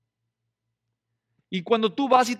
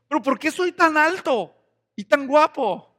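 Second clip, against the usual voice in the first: mock vain lament; 7 semitones higher, 10 dB louder than usual. Young man at the mirror, mock-suffering over his good looks. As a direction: pretend to suffer from being handsome.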